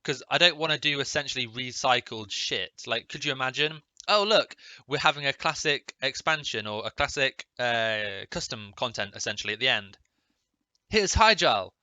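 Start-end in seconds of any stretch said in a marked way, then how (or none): 4.1-11.7 mock excitement. Mocking a lazy recycled expansion.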